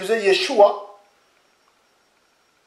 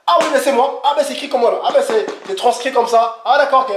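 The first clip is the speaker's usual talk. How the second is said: surprised recognition; 4 semitones higher than usual. Retold or imitated. Acted exchange about name in China.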